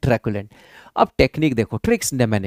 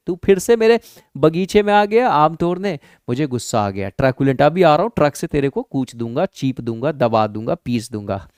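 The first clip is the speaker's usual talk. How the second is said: angry grandpa. Acted. Angry grandpa with stick acted.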